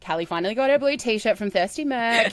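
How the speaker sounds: lightly voiced news headline; mock news announcer. Co-host announcing the T-shirt as mock breaking news.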